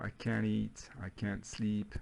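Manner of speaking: "can't" with a flat American A, as in "cat"; American accent. Shown as a demonstration. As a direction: say it the American way, front vowel in "can't". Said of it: "là, c'est avec l'accent américain". (accent américain, « can't » avec le A de « cat »)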